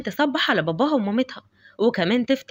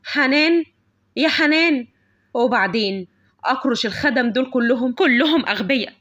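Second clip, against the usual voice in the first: calling out for the maid. Acted. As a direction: summon the head maid impatiently. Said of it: "كانت بتنادي على رئيسة الخدم". (نداء عالي متسلط على الخادمة)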